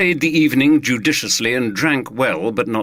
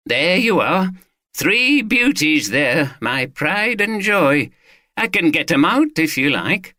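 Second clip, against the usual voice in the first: raised, eager Yorkshire man proudly explaining his rifles; Watson the gun owner; 7 semitones higher, slower than usual. Acted. Owner showing off his rifles to the detective, lightly voiced and eager. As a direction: answer the detective cheerfully, a touch higher.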